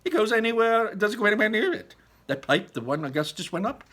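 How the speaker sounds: high, loud chirpy explanation; high loud Wonka voice; Wonka explaining. Acted. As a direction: set her straight brightly. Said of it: "Wonka explains the pipe".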